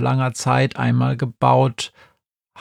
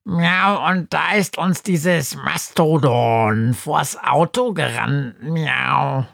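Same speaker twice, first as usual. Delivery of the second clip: high, fast-talking meowing cat; chattering cat voice; 3 semitones higher, slower than usual. Acted. Schrödinger the cat pesters Günther, high and chatty. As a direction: babble excitedly like a scatterbrained cat.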